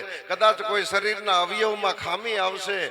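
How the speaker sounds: put-on a young woman suddenly seeing the world's truth; young woman's realization. Young woman's inner monologue voiced.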